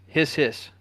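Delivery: drawn-out s like a snake; snake hiss. Shown as a demonstration. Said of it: "That was me trying to sound like a snake".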